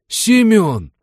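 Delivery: high loud shout of recognition; a loud, high cry of joy at seeing his lost friend; joyful yell. Acted. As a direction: yell his name in surprise. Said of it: "завопил Игнашка".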